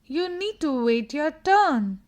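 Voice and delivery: loud, firm call to stop pushing in line. Shown as a demonstration. Girl in the line tells the pusher to stop, loud and firm. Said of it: "She could say".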